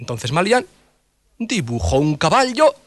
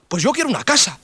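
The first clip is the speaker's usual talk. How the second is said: villager voice; 9 semitones higher than usual. Acted. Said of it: "Y otro dijo".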